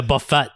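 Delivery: mock New Yorkers' "buffet", buh-FET; "buffet" with a sounded final T. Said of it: "They like calling it a".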